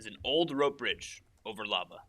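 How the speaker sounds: announcer voice. Pretend. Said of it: "I wanna hear your best announcer voice".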